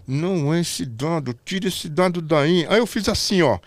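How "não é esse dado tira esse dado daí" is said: slow, insistent earpiece order; repeated urgent order. Retold or imitated. Director repeating the order, slow and insistent. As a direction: press it, slow and firm. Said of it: "Só que eu não tô sabendo".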